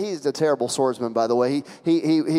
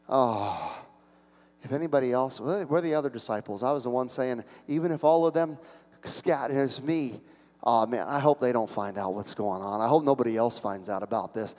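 soft, subdued worry; acted shame, murmured to oneself; ashamed inner voice; 4 semitones lower, 6 dB quieter than usual. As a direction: keep it low, as if hiding. Voicing Peter's shame.

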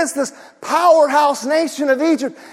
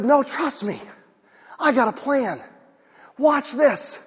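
softer, calm voice of God; calm reassurance; 5 dB quieter than usual. Retold or imitated. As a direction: reassure them quietly, steady. God voiced calmly in story.

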